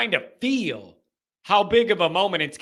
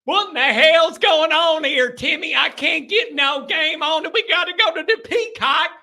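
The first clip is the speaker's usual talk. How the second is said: hick Louisville fan; 8 semitones higher than usual. Retold or imitated. Host imitating an angry fan yelling at Timmy, in a hillbilly accent. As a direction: yell at Timmy in a thick pitched-up country accent. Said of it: "I could just see 'em right now".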